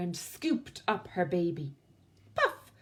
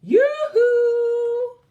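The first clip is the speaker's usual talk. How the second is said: high, loud long call; 15 dB louder than usual. Acted. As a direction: call across the night. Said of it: "called Winnie".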